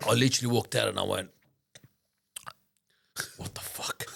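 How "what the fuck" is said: voiceless, hushed disbelief; retold shock under the breath; stunned whisper. Retelling his shock on walking out.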